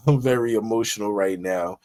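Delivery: a real laugh that runs into the words; laughing at himself. Real, not acted. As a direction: laugh at your own outburst, then repeat the line.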